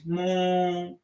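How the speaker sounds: soft playful moo; cow moo. Shown as a demonstration. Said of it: "feel free to make a cow, uh, noise".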